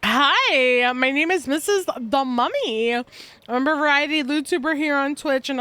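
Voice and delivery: talking while eating chocolate; talking through a mouthful of chocolate; mouth full. Real, not acted. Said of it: "I put chocolate in my mouth".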